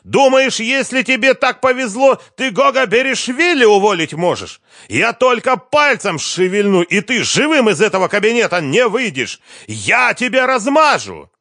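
raging boss screaming threats; furious threats. A narrator's reading. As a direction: threaten to crush him. Threats after shouting.

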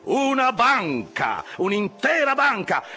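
high, frantic begging of the crew; excited, pleading cries. A narrator's reading. Officer hopping about, begging his rowers to speed up, crying high. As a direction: implore them, pitch leaping up on each cry. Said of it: "gridava Flask saltando su e giù".

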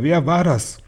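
high-pitched urgent question; calling out. A narrator's reading. Father demanding who bewitched his son, calling out. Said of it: "rief er".

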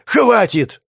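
very high, loud shriek; enraged scream of "Хватит"; furious scream. Acted. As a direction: scream to end it all. Sofia screams in fury.

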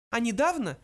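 high little mouse voice; mouse interjecting. A narrator's reading. Mouse adds a detail about home, high voice. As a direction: slip it in, voice pitched high. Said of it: "продолжал его коллега".

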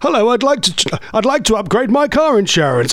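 lightly imitated radio announcer with swooping pitch; playful mock announcer; Howard Hughes. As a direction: play a broadcaster introducing himself on a customer call. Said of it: "the best voice ever".

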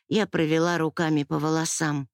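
plain reading voice

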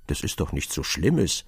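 low, mildly let-down line; a little disappointed. A narrator's reading. K. answering the merchant's confession, a little disappointed. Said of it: "ein wenig enttäuscht".

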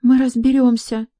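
high, flustered reassurance; flustered maid. A narrator's reading. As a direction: squeak a quick promise. Maid answers yelling guest.

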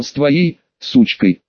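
"сучкой" set apart by a short pause and slowly underlined; slow down and lean on "сучкой" with mild venom; venomous emphasis. A narrator's reading. Er throwing the insult back at Del, stress on "сучкой". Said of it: "Он выделил это слово".

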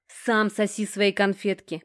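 slow, pointed retort; angry snub. A narrator's reading. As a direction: spit the offer back slowly. Furious girl snubs his offer.

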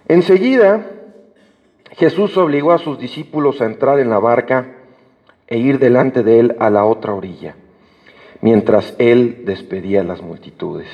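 measured, solemn Bible reading; unhurried scripture reading from the pulpit. Acted. Reads the Bible passage aloud.

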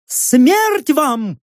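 high yelled curse; завопила. A narrator's reading. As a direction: shriek it like a little imp. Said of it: "провопила чёртиком". (вопль чертиком)

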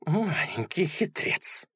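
high troll voice, muttered; muttering. Acted. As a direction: mutter it slow, like a sly troll. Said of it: "бормотал он".

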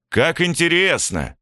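detective's slow sarcastic remark; mock interest. A narrator's reading. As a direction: drag it out with sarcasm. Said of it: "произнёс Владимир".

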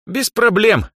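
put-on carefree girl agrees to the deal; breezy. A narrator's reading. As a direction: toss it off lightly. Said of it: "легкомысленно заявила Эльза".

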